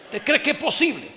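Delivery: high, loud laughing question; laughing disbelief. Real, not acted. Preacher asking the congregation, laughing disbelief.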